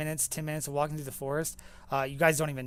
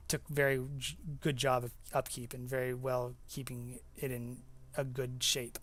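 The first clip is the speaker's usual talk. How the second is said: halting, tripping restarts, trailing softer; stumbling over words; 4 dB quieter than usual. Real, not acted. Game master describing the well-kept cave, stumbling over words. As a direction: stammer slightly and grope for the phrase. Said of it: "stuttering a little bit".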